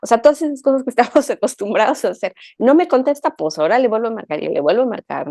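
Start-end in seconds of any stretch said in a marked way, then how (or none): 2.6-5.3 insistent caller. Acted. Podcast guest mimics someone calling over and over, insistent. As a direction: act out impatient redialling, quickly.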